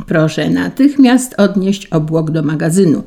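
ordinary delivery

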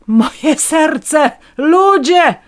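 very high, loud theatrical call; dramatic cry. A narrator's reading. Woman staging a heart attack before police, high dramatic cry. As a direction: play the dying victim. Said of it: "krzyczałam".

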